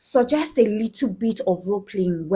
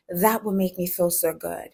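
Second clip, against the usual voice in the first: mildly sultry, a little lower; bedroom voice; 3 semitones lower, 4 dB quieter than usual. Shown as a demonstration. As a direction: purr it lightly to a lover. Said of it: "please use your bedroom voice".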